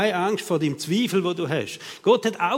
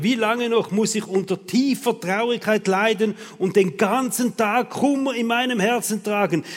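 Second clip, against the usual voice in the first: loud, raised, reproachful lament; venting frustration; 4 semitones higher, 5 dB louder than usual. Acted. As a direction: pour it all out at God, overdramatic. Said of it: "Da kotzt sich der David also richtig aus bei Gott".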